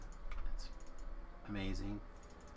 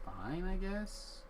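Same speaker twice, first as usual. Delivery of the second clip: sulky; 10 semitones higher, much slower than usual. Pretend. Sulking at being kept off airship.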